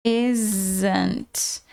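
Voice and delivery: "isn't" as one joined word, drawn out and low; contracted isn't. Shown as a demonstration. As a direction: demonstrate "isn't", is and not run together. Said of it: "pode juntar o is com o not".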